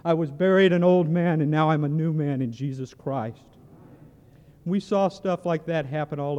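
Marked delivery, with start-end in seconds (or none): 0.0-3.4 loud, fervent cry fresh out of the river; joyful testimony. Retold or imitated. Newly baptized man to the preacher on the bank, loud joyful proclaiming. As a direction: proclaim it with new-born joy. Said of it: "he goes".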